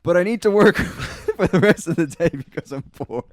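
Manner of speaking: mock desperate plea; pleading. A poor worker begging the boss for a job. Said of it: "but then also be like".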